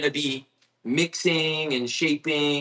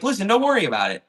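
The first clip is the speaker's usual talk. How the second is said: kind lady; 7 semitones higher, faster than usual. Retold or imitated. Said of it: "she was like".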